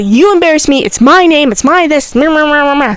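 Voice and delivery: mock her griping, trailing into meh-meh babble; imitating a petty complainer; mocking complaint. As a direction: mimic a self-centred whine, ending in nonsense syllables. Mocking the teacher's self-centred complaints.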